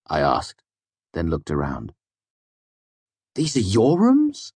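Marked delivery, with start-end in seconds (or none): 3.3-4.5 mock dismay. A narrator's reading. Feigned dismay.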